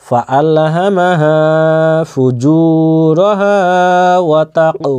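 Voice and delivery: slow, measured chant with held vowels; practice recitation. Shown as a demonstration. Teacher repeating for good pronunciation, slow drawn-out recitation. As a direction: recite slowly, stretching every madd. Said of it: "কয়েকবার করে বলে নিব".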